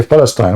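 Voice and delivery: Palestine said as the Arabic word; Arabic pronunciation. Shown as a demonstration. Speaker explaining the Arabic name, Palestine pronounced as in Arabic. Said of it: "in Arabic you say".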